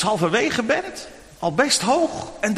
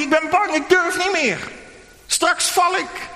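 put-on higher, scared little boy's plea, slowing at the end; frightened child; 10 semitones higher than usual. Tim stuck on the climbing wall calls to his dad, frightened. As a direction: play a boy frozen on the wall, begging. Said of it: "riep hij".

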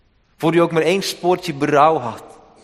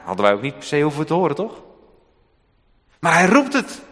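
ordinary talk

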